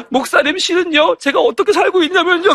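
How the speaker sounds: lightly voiced child, high and earnest; high-pitched imitation of a child's confession; child pouring out troubles. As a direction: confide in the pastor like a world-weary child. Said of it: "마치 한 오십 년 산 사람처럼".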